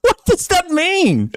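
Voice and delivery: high laughing question; asking through laughter in disbelief. Real, not acted. Reacting to the clip, laughing high in disbelief.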